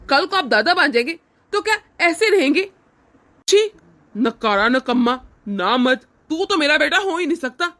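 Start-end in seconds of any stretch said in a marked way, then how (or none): 3.5-7.7 disgusted insults spat out; lightly hammed father's disgust; contempt. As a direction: scorn the son as worthless. Father insults his son.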